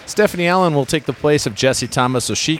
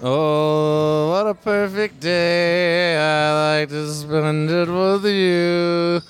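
slow, high, through clenched teeth; jaw wired shut; 5 semitones higher, much slower than usual. Retold or imitated. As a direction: a singer with a wired jaw, dragging it out. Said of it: "my impression of a singer with his jaw wired shut".

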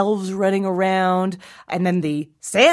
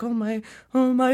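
put-on high-pitched, childlike astonishment; dawning amazement; 6 semitones higher than usual. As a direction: start small, a kid stunned by news. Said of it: "repeating it louder and louder".

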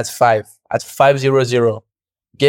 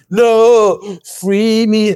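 mock shout; 8 semitones higher, much slower than usual. Rider jokingly yelling at the start gate, mock shout. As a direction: throw out a joking yell of protest.

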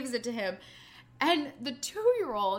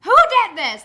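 loud furious demand; angry parent shout; 6 semitones higher, 16 dB louder than usual. Retold or imitated. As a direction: confront the kids over the mess. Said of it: "they were so mad".

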